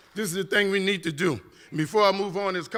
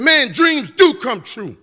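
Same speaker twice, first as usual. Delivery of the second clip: louder, slow and higher, savouring every word; excited exclamation; 7 semitones higher, 9 dB louder, much slower than usual. Retold or imitated. Beside Jeff Immelt, an amazed, slow, loud cry of joy. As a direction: let the joy burst out slowly.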